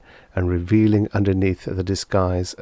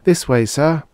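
higher, louder pleasant lilt; pleasant, smiling; 8 semitones higher, 5 dB louder than usual. A narrator's reading. Stewardess pushing him into his seat, smiling pleasantly. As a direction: usher him with an audible smile. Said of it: "she said, smiling pleasantly".

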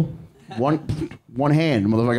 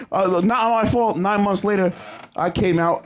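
mock protest; 7 semitones higher than usual. Retakes the punchline.

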